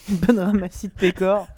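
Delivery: talking through a mouthful; words around a bite of sausage; chewing while talking. Real, not acted. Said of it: "je mange mon saucisson".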